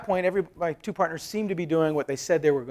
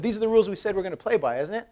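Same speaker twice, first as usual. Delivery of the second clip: firm challenge; 7 semitones higher, 6 dB louder than usual. Retold or imitated. Retold confronting partners with rules.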